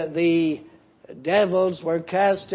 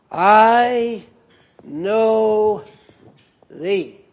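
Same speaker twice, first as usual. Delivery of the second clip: devil's cry. Acted. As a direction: drag out I know thee like the devil. Preacher voicing the devil again.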